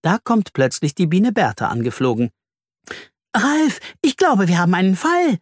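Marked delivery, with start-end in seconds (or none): 3.3-5.4 high, excited bee with news; excited buzz. Acted. Bertha the bee reports a case to Ralf, excited. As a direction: buzz it out, pitched well up. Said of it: "summt sie aufgeregt".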